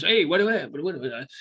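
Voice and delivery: imitated mobster babble, trailing off; Frankie Carbone mannerism. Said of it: "that's how it sounds".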